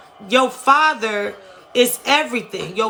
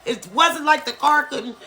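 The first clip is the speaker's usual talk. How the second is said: getting upset; 4 semitones higher than usual. Real, not acted. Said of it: "I don't know why I'm getting upset".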